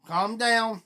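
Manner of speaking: imitating a sister's southern accent. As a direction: mimic a Southerner on the phone. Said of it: "southern accent".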